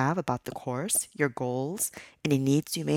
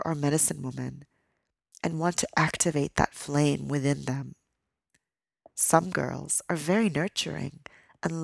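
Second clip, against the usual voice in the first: storytelling voice. A narrator's reading. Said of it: "I'm going to go into my storytelling voice".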